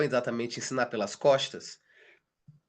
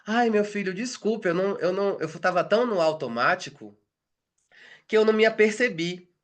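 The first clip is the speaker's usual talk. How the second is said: raised, sorry mother's voice; a flustered mom apologizing; apologetic mother; 5 semitones higher than usual. Retold or imitated. Mother apologizes to her son, flustered and raised.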